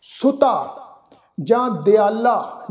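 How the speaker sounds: ਸੁਤਾ and ਦਿਆਲਾ with long final "aa"; kanna tone. Shown as a demonstration. Teacher gives modern-style examples, long "aa" on ਸੁਤਾ, ਦਿਆਲਾ. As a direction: end ਸੁਤਾ, ਦਿਆਲਾ on an open "aa". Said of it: "ਉਹ ਕੰਨੇ ਦੀ tone ਵਿੱਚ".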